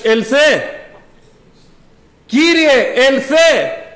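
loud, urgent acted plea; high, loud bride's cry, each word ringing. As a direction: call out to the Lord with full longing. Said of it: "Ξέρετε τι φωνάζει η νύμφη".

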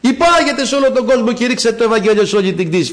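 calling out. Acted. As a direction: send them out with a herald's call. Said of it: "φωνάζει η σοφία". (κήρυγμα σαν διαλάλημα)

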